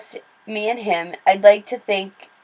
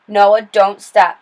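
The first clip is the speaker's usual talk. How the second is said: slow, louder, teeth clenched; through clenched teeth; 6 dB louder, much slower than usual. Acted. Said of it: "she said through clenched teeth".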